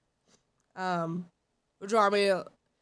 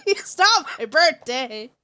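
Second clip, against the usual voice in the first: exasperated protest; 4 dB louder than usual. Real, not acted. Repeats the protest.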